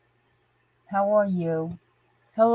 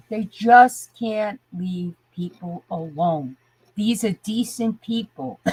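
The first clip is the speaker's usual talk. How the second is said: worked up. Real, not acted. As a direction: weigh each word in frustration. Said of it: "I'm getting worked up".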